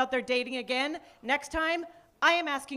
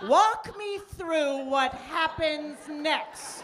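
slow interrogation; 5 semitones higher, much slower than usual. Pretend. Interrogating a date.

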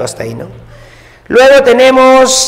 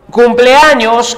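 slow spelling-out; 3 semitones higher, 4 dB louder, much slower than usual. Shown as a demonstration. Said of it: "cumpleaños también está en, mayúscula".

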